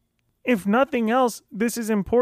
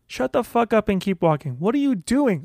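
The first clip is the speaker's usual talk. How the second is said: inner drill sergeant. Shown as a demonstration. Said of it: "this is what it sounds like".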